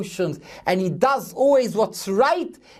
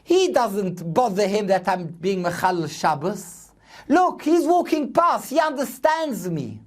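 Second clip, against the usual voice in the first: imagined driver; 3 semitones higher than usual. Retold or imitated. Driver remarking on the rabbi walking past, lightly acted remark. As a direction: point out the rabbi, in a mildly raised quoting voice. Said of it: "will see me and say".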